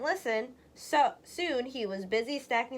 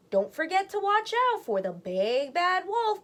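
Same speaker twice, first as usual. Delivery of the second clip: raised, higher caring mother voice; mother calling out; 7 semitones higher, 3 dB louder than usual. Acted. Mother calls a warning to her sons as they leave. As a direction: call the warning after them like a worried mum. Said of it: "called their mother".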